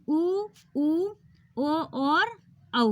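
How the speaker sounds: उ, ऊ, ओ, औ drawn out very slowly; slow careful vowel drill; vowel demo. Shown as a demonstration. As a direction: stretch each back vowel long. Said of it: "तो ये है".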